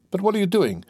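high-pitched startled question; alarmed exclamation. Acted. Gendarme catches prisoner about to leap, alarmed. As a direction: break out in sudden alarm, pitch jumping up.

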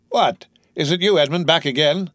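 put-on broad Marseille accent. A narrator's reading. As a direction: greet a returning sailor in mock Marseille tones. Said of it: "said he with a broad Marseille accent".

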